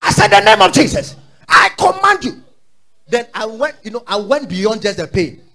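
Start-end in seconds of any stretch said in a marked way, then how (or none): 0.3-2.4 shouting rebuke. Retold or imitated.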